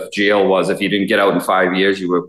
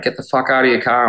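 mock scream; 6 semitones higher than usual. Drill instructors ordering a recruit out of his car, mock scream. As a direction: imitate a screaming drill instructor without the volume. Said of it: "like, screaming".

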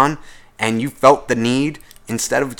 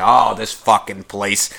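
slow, lower mock grumble; grumbling smoker; 6 semitones lower, slower than usual. Coworker griping on the smoke break, in a slow mock grumble. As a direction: drag it out like a sour coworker lighting up. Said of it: "they're fucking complaining".

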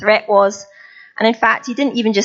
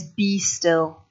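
stern; 2 semitones lower, 5 dB quieter than usual. Retold or imitated. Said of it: "It's a stern voice".

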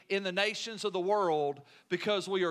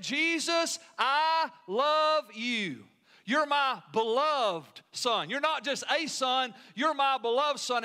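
loving father; 2 semitones higher, slower than usual. Acted. God the Father affirming his Son.

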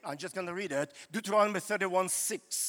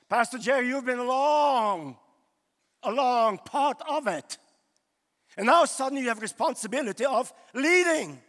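emphatic address; 4 dB louder than usual. Real, not acted. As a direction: call it out to the pastor. Preacher addressing Pastor Jerry directly.

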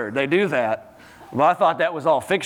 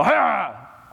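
people snarling like dog. Acted. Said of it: "people will be like the dog".

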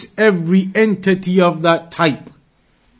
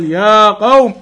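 prophet calling his people; faster than usual. Retold or imitated. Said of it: "they would say to their people".

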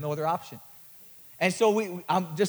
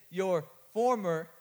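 imitating the preacher; much slower than usual. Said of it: "this is his voice".

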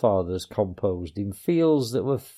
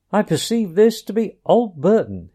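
higher, louder approval; approving Rat; 8 semitones higher, 5 dB louder than usual. A narrator's reading. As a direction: savour the find. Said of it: "he remarked approvingly".

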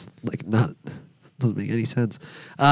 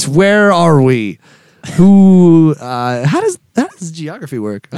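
mock bewildered shout; 6 dB louder, slower than usual. Mock lost, loud and slow.

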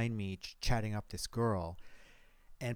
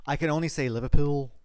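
put-on parody Liverpool accent; 4 semitones higher, 8 dB louder than usual. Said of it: "sort of parody of a Liverpudlian accent".

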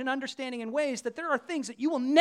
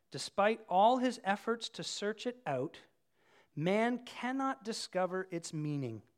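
slow, measured Bible reading; scripture reading; 4 semitones lower than usual. A narrator's reading. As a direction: read the passage slowly and deliberately. Reads scripture aloud.

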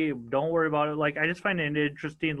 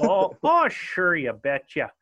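mock northern Minnesota drawl; Minnesota accent; 3 dB louder, slower than usual. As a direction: play up the Minnesota accent on "sure, you betcha". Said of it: "my northern accent".

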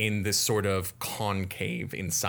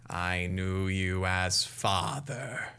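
ominous reveal; slower than usual. Acted. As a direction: drop the twist gently. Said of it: "rat's reveal line".

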